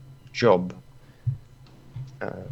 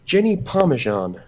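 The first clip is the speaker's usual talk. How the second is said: much higher, pointed question; high demanding voice; 10 semitones higher than usual. Acted. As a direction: pitch it up and demand. Ruler asks for missing spy.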